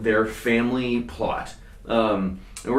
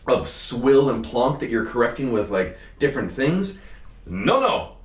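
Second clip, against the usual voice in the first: retold indignant outburst; 3 semitones higher than usual. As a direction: act out the shocked grower protesting the cooperative. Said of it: "he's like".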